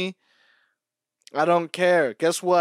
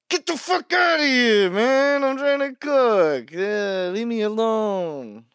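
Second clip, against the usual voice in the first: high-pitched mock yell; 10 semitones higher, 6 dB louder, slower than usual. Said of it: "I'm like".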